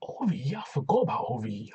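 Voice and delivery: mildly surprised recollection, wavering pitch; acted surprise. Host replays his reaction to the segment, acted surprise. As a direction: act out suddenly remembering.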